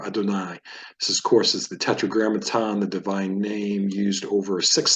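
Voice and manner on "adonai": "Adonai" said as a-do-NAI; stress on last syllable. Shown as a demonstration. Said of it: "Stress is on the last syllable".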